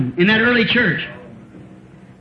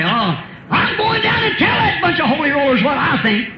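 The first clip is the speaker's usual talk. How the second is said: mock indignant outburst; 4 semitones higher than usual. Churchgoer vowing to confront the holy rollers, in a mock angry shout. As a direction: raise it into a hammed-up huffy shout, a touch higher.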